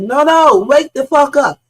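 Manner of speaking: high, loud mock panic; urgent yell. Imitating the caller's panicked yell on the boat. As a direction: shout it like something is really wrong. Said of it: "And the way this dude said".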